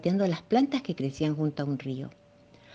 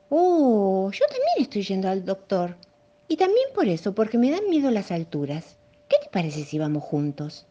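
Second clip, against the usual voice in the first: lightly raised giraffe voice; young giraffe voice; 3 semitones higher than usual. Acted. Giraffe telling the monkey she fears heights too, lightly higher. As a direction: offer company as the timid giraffe. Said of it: "dijo la joven jirafa".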